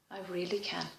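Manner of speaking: barely voiced, said to herself; whispered. Real, not acted. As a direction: whisper it as a private realisation. Whispered inner confirmation.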